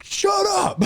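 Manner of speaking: high-pitched shouted mock outburst; frantic fan yelling, half laughing; retold freak-out. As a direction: re-enact snapping at calm friends. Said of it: "I'm fucking freaking out".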